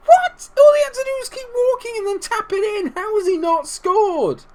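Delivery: very high, squealing protest; outraged disbelief. Real, not acted. Gamer after an open goal missed, outraged disbelief. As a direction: squeal it in loud disbelief, dragging the end.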